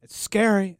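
a quick presidential parody; hint of a satirical politician impression; Dana Carvey as George Bush. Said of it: "as Dana Carvey, as George Bush would say".

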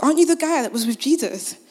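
put-on a light high girl's voice asking; little girl. Little girl questions Peter.

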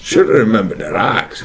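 low, soft, fast Irish-sounding ogre; mock Irish lilt on the ogre line; parroting Shrek in Irish accent. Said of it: "That's like an Irish parrot".

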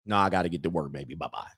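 low, softened lover's goodbye; acted man making his exit; offhand brush-off. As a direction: slip out with a low, dismissive goodbye. Acting lover brushing her off.

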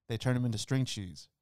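ordinary talk

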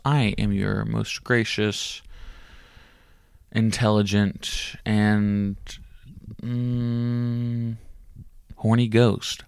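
slow, pompous show-host boast; grandiose host. Acted. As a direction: lay the self-praise on thick. Hammy slow host brag.

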